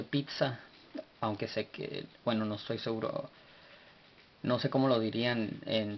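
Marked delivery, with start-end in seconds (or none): 0.0-0.6 "pizza" with a t-s in the middle; TS sound. Shown as a demonstration. Teacher likening the silent-vowel letter to pizza, pronounced with TS. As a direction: say "pizza" as pit-sa. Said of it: "es decir, como, como cuando uno dice".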